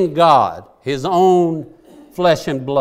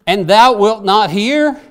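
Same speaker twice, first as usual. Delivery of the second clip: loud, slow, pleading cry to God; desperate cry; 4 semitones higher, 6 dB louder, slower than usual. Acted. Preacher reads the prophet's plea to the congregation, desperate loud cry. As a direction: stretch each word out like a man begging heaven. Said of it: "now notice his desperation".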